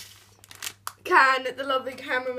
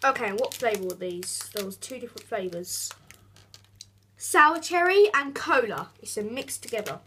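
talking round a sweet; mouth full; 3 semitones lower than usual. Real, not acted. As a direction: speak with candy in your mouth. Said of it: "I've still got watermelon in my mouth".

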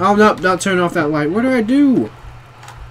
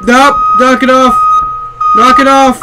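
irritated; 5 semitones higher, 6 dB louder than usual. Real, not acted. Irritated by a repeating noise.

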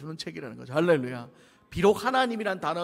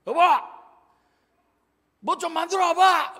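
high, loud tipsy shout at the wife; drunken husband yelling for his wife to bring food; 10 semitones higher, 9 dB louder than usual. Retold or imitated. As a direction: bark an order like a drunk husband. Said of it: "남자들이 ... 술 취하면 그러잖아요".

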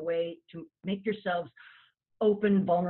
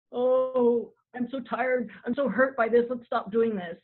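mock hurt confession; 4 semitones higher than usual. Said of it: "what are you really saying?".

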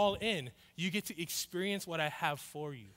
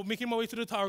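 ordinary delivery

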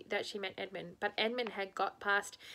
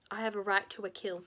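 menacing whisper. Acted. Witch claims her right, whispered.

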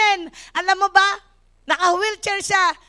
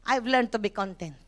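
lower, softer testimony; lower, softer personal testimony; soft personal confession; 9 semitones lower, 6 dB quieter than usual. Shown as a demonstration. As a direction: say it quietly as your own.

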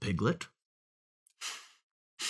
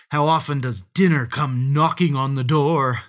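loud, exulting storybook fox; shouting; 4 semitones higher, 8 dB louder than usual. A narrator's reading. Fox marvels at dinner arriving, shouting. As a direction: keep crowing over the catch. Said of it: "the fox shouted".

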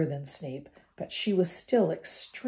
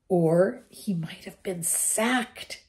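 slow, eager relish; enthusiastic; 2 semitones higher, slower than usual. Acted. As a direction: savour the idea gladly. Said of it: "said Ron enthusiastically".

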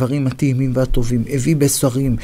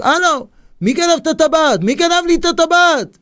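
high, outraged cry; acted furious shout; 12 semitones higher than usual. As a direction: yell the demand as the wronged king, voice leaping up. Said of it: "מתחיל לצעוק".

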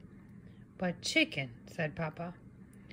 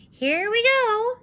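high, loud and slow eager start; 8 semitones higher, 6 dB louder than usual. Acted. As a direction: eagerly begin.

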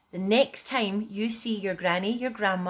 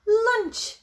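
pleased grandma; 7 semitones higher, 5 dB louder, much slower than usual. A narrator's reading. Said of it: "smiled Grandma".

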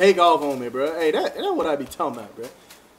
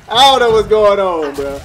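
panicking gamer; 7 dB louder than usual. Real, not acted. Controller disconnected mid-fight.

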